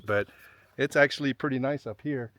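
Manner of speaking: winded, breathing hard between words; huffing and puffing. Real, not acted. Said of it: "if you hear me huffing and puffing a little bit".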